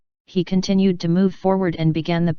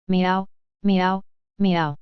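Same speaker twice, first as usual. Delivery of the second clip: faint cat meow; much slower than usual. A narrator's reading. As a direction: mew weakly like a newborn kitten. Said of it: "A faint cat meow".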